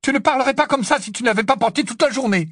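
very high, loud pleading; strangely high voice. Acted. Hermione begs Ron to take it off, high-voiced. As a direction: beg urgently at the top of the voice's range. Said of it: "la voix étrangement aiguë".

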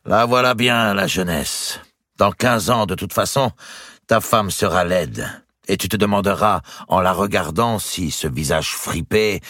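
lightly voiced lecturing uncle; a touch of exasperation at youth; exasperated old uncle. Uncle warning his lovestruck nephew, mildly exasperated.

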